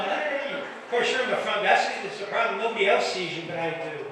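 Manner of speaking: usual speaking voice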